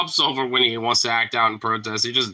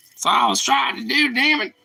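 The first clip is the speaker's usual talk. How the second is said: high and strained; exasperated outburst; 12 semitones higher than usual. Real, not acted. Finally opening the pork bun, a high exasperated burst. Frustrated with the packet.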